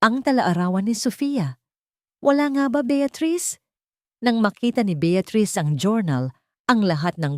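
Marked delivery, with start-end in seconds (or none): 2.2-3.6 high, sharp accusing question; pointed challenge. A narrator's reading. Ignacio confronting Beatrice with her journal, accusing.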